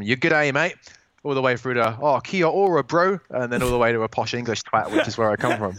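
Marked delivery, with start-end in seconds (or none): 0.0-0.8 lightly put-on Australian greeting; mild Australian twang; Aussie accent. Shown as a demonstration. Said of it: "weird mix between, like, uh, going from". 2.0-3.2 lightly imitated New Zealand accent; a casual Kiwi greeting, lilting a little higher; hint of Maori New Zealand accent. Shown as a demonstration. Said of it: "my girlfriend's a Kiwi as well".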